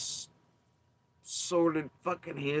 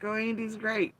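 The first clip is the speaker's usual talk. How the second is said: higher sing-song mock praise; mock gushing; 9 semitones higher than usual. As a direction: coo it high and fake. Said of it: "Curiosity's like".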